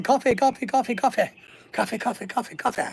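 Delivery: lightly voiced chant of coffee, fading down; movie quote. Quoting Dante's Peak to chat in a light chanting voice. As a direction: rattle off the line like the film character. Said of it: "that was from the movie Dante's Peak".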